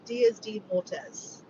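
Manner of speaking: very slow attempt at Spanish, Australian accent. Real, not acted. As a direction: try "Dias de Mortes" carefully in Australian tones. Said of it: "Am I saying that right with my Australian accent?".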